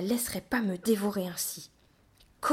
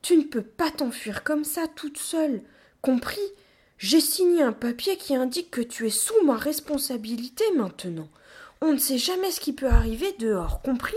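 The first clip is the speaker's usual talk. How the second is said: higher, raised-voice telling-off; scolding; 6 semitones higher, 5 dB louder than usual. A narrator's reading. Gorilla scolds the runaway in their care, scolding. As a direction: lecture sternly, demanding to be understood. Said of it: "se mit à me gronder".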